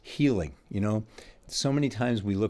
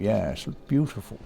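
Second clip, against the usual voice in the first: opera aficionado. Pretend. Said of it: "And an opera aficionado".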